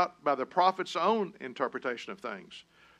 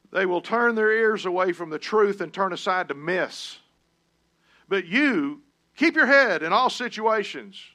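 louder, higher preaching cadence; rising preacher cadence; 5 semitones higher, 6 dB louder than usual. Acted. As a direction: drive the charge home. Preaches scripture at full force.

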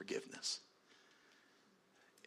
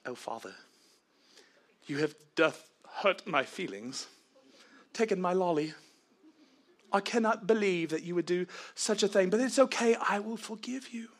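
hammed-up overly proper child; mock polite child; 8 semitones higher, 6 dB louder than usual. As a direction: act the oddly polite little kid, laying it on. Pastor mimics child losing lollipop.

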